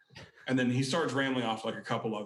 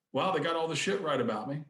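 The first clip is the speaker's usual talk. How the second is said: impressed rocker, higher-pitched impression; a rock singer; 5 semitones higher than usual. Singer looks through the book, higher-voiced impression. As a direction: lightly imitate a singer marvelling, voice raised. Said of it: "he's got kind of a higher pitched voice".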